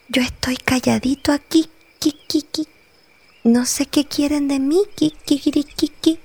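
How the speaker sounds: timid bat hiding; speaking very slowly. Acted. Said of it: "muy despacio, les habló".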